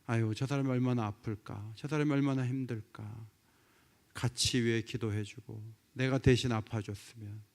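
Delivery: 낮고 부드럽게 안타까워하는 목소리; 함께 아파하듯 나직이; 따뜻한 연민. Acted. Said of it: "따뜻하고". (따뜻하게 안쓰러워하며)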